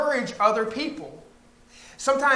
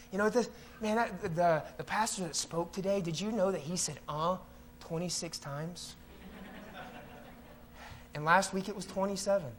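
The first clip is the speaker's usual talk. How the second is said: hushed, lower fault-finding; mock gossipy criticism; 3 semitones lower, 9 dB quieter than usual. Churchgoer counting the pastor's uhs, hushed and petty. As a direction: confide a petty complaint, soft and low.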